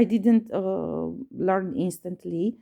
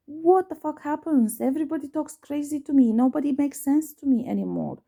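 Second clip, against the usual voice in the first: retold exasperated rant, higher pitched; angry; 6 semitones higher than usual. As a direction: vent like someone at the end of their patience. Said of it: "I left so angry at the church".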